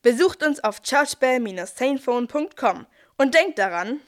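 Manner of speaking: pushy call to buy now; ad closing. Acted. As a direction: close the ad with a hard sell. (drängender Werbeschluss)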